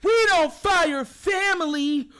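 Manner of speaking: slow, loud mock lament; mocking team voice. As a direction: parody the front office's excuse. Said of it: "They said".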